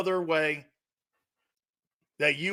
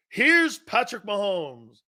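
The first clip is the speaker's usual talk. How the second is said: announcer intro. Shown as a demonstration. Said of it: "watch this".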